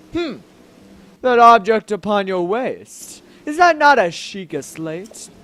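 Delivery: lightly voiced stately king; measured, regal questioning with a put-on manliness; deep manly voice. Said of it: "let's give him a deep, manly voice".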